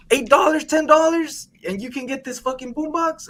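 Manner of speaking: high-pitched price haggling; pushy telemarketer. Retold or imitated. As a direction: make the deal sound irresistible. Acting out his sales pitch.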